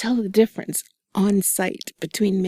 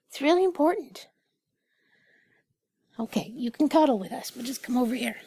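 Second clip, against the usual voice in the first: talking to cat; 7 semitones higher than usual. Real, not acted.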